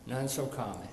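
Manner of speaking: hushed repetition for effect; soft echo. Shown as a demonstration. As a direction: drop the voice and repeat it quietly. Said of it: "but none so common".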